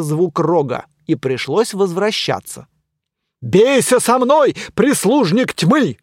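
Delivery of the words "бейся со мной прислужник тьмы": loud, slow, high knightly challenge; pompous challenge. Acted. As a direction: proclaim it grandly.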